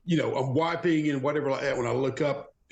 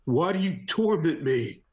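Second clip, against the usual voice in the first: anguished plea, pitched higher; 5 semitones higher than usual. Acted. Pleading with an unseen tormentor, acted anguish. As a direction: cry out mildly, in a higher voice. Character cries out to a vision.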